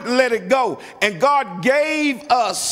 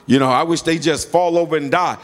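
low, slowing mock curse, stumbling on the words; retold grudge, dropped low in pitch; imitated anger; 7 semitones lower than usual. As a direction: act out a mad person's muttered ill wish, pitched well down. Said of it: "somebody made you really mad".

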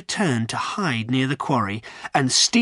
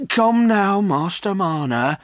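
raised, firm interjection; 8 semitones higher, 4 dB louder, slower than usual. A narrator's reading. Landlord taking Silas by the arm, firm. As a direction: cut in and take charge. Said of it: "said the landlord firmly".

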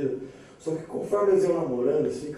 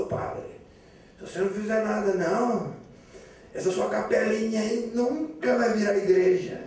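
stern; 5 semitones higher than usual. Acted. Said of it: "olhou duro pro padre e falou".

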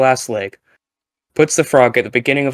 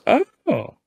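oh. Retold or imitated. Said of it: "And he goes".

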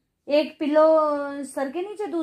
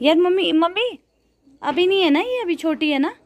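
high, loud pleading call to mom; loud protest; 7 semitones higher, 5 dB louder than usual. Real, not acted. Calling mom, protesting about corn. (ऊँची, ज़ोरदार शिकायत भरी पुकार)

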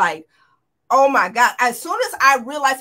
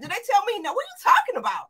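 incredulous; 9 semitones higher, much faster than usual. Retold or imitated. Retold disbelief at the gate.

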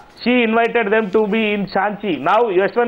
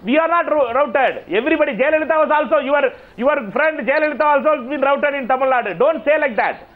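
higher-pitched, heated protest; indignant objection; 4 semitones higher than usual. Real, not acted. Panellist rebutting a rival's claim of an election rout, indignant. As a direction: argue back, offended, in a raised pitch.

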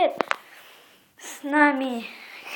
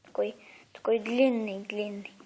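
hushed whisper; 6 semitones lower, 7 dB quieter than usual. Acted. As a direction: breathe it out unvoiced. Whispered aside about long dog.

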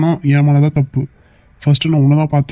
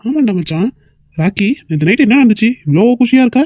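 excited teasing; 5 semitones higher than usual. Acted. Friend teases Rocky about last night.

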